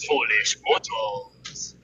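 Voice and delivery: low, slow ghostly drawl; booming demon lord. Retold or imitated. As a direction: drag it out like a haunted mansion ghost host. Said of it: "my haunted mansion".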